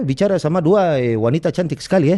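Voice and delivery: Indonesian in a Spanish accent, low and halting with long ehs. Shown as a demonstration. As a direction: speak Indonesian like a Spaniard, slow and hesitant. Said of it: "bahasa Indonesia tapi pakai aksen Spanyol".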